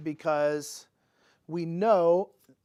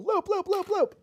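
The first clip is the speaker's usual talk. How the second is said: playful singsong; 13 semitones higher, 3 dB louder than usual. Pretend. Playful repeated moves.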